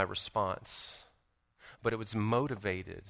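low, soft, earnest sermon voice; hushed, solemn preaching. Real, not acted. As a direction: bring it right down, intimate and heartfelt. Preacher turns solemn and intimate.

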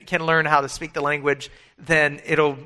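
normal talking voice

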